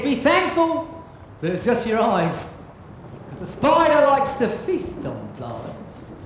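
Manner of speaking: storyteller reading a darkly funny rhyme; comic poem recital. Acted. Pirate captain recites a spider poem to the crowd, storytelling. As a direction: tell the rhyme with relish.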